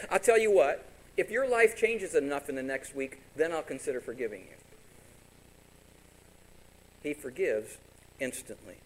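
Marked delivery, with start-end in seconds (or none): 0.1-4.6 mock bargaining. Mock bargaining Jesus quote.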